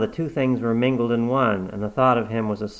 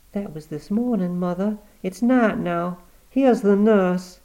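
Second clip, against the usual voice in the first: higher, gentle worried daughter; anxious daughter; 9 semitones higher, 3 dB louder than usual. Acted. Cornelia asking her dying mother how she feels, worried.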